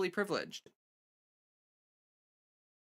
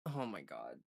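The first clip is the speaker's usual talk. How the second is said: hiccups; 10 semitones lower, 13 dB quieter than usual. Real, not acted. Hiccups continuing on stream.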